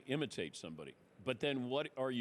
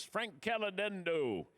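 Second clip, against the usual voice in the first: slow, high, drawn-out announcer call of the name; Terry Bradshaw impression; 7 semitones higher, slower than usual. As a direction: stretch the name out like a hyped football broadcaster. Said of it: "or as Terry Bradshaw says".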